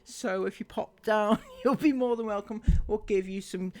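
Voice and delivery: lightly put-on Welsh lilt, sing-song and mocking; a mocking Welsh voice inviting people over; a hint of Welsh accent. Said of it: "Bloody Wales, indeed".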